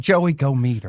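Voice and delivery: put-on female voice. Reading out a listener's text message: imitating Liz's voice. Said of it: "your version of her voice".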